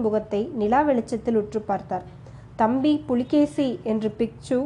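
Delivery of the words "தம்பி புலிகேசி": a mild slow wail, slightly raised; anguished cry. Acted. Monk recognises his dead brother's face, a mild slowed cry. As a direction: cry out the name, drawn out but understated. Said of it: "வீறிட்டு அலறியது".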